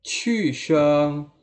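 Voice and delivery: Qu sheng falling sharply from high; fourth tone. Shown as a demonstration. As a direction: drop the pitch hard on Qu. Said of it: "nada keempat disebut qu sheng".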